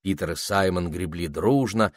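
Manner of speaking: ordinary delivery, nothing marked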